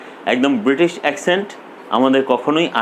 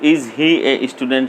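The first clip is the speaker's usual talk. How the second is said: slow demo; much slower than usual. Shown as a demonstration. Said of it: "তাহলে হবে".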